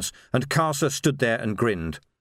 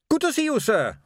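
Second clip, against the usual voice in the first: Carrot voice; 12 semitones higher than usual. A narrator's reading. Carrot greets Vimes.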